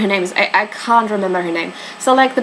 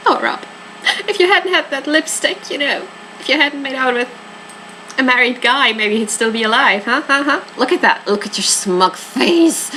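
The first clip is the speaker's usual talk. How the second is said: mock accusing taunt; 4 semitones higher than usual. Accusing a character over the lipstick.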